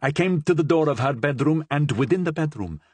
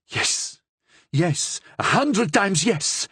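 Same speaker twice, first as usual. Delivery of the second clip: arrogant; 8 semitones higher, slower than usual. A narrator's reading. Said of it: "in a manner increasingly arrogant".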